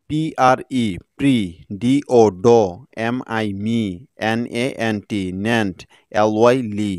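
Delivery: letters first, then the sounded syllable; segmented spelling demo with short pauses. Shown as a demonstration. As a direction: spell out and sound each chunk separately. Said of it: "এভাবে ভেঙে ভেঙে".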